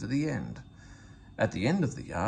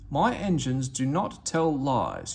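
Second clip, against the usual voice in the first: severe; slower than usual. Acted. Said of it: "spoke severely to Daisy".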